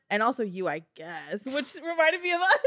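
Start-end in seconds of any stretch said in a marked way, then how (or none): 0.1-1.5 grudging afterthought. Retold or imitated. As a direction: add it grudgingly, letting the voice sink. Acting grudging thanks to Branch.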